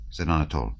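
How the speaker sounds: ordinary delivery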